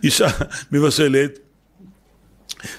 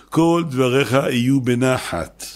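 slow and measured; gentle unhurried reading; 3 semitones lower, slower than usual. Shown as a demonstration. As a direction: read it out calmly, word by word. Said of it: "עונים לי, לא בקול רם, לא בצעקות".

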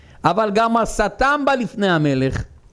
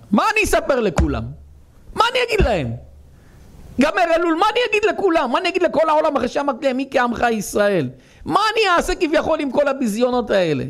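lament; 8 semitones higher, faster than usual. A narrator's reading. God laments over His people.

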